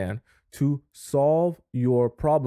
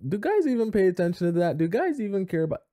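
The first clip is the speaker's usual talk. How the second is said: skeptical woman; 7 semitones higher, faster than usual. Retold or imitated. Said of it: "some of you might be like".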